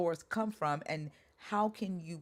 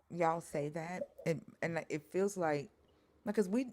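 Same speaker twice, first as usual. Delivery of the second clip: talking through a mouthful of food; words round a bite of food; mouth full. Real, not acted. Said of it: "sorry, y'all, I have food in my mouth".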